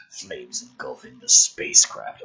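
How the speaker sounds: dramatic script read; energetic story narration; screenplay narration. Acted. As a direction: build the action like a trailer voice. Reads screenplay action aloud.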